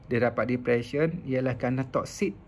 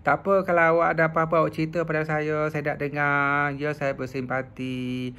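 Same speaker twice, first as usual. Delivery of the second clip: gentle listener. Shown as a demonstration. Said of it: "contohnya perkataan".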